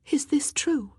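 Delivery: high, breath-filled shocked question; hushed, high-pitched disbelief; shocked half-whisper. A narrator's reading. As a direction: ask it half whispered, trembling for her. Anne trembling, asks weeping sister.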